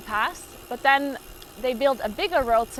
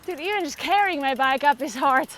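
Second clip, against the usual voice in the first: out of breath. Real, not acted. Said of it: "Even that is exhausting".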